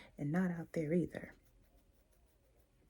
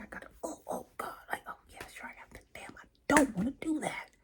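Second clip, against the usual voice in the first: reluctant inner voice; 6 semitones higher, much faster than usual. Shown as a demonstration. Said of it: "If you feel like".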